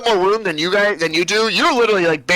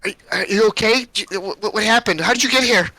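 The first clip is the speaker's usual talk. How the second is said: put-on higher, halting young girl; stammered questions in a raised child's voice; little girl; 4 semitones higher than usual. Unfazed girl questioning strangers in cages, higher child's voice. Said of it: "she goes".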